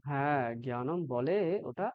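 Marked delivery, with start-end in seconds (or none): 0.6-1.0 জ্ঞানম as plain gyanam; hard gy at the start of জ্ঞানম; wrong Bengali pronunciation. Shown as a demonstration. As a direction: say জ্ঞানম with no nasal ny. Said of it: "আমাদের ভুল উচ্চারণ".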